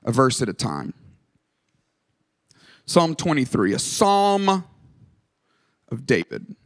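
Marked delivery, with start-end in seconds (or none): 2.9-6.6 measured announcement with long pauses; solemn reading title, spaced out; scripture reading. Real, not acted. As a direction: introduce the psalm unhurriedly.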